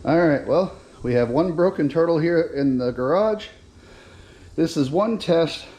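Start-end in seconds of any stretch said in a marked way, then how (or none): 4.5-5.7 winded after pushing the cart; panting between words; out of breath. Real, not acted. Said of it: "I'm sorry, I'm out of breath".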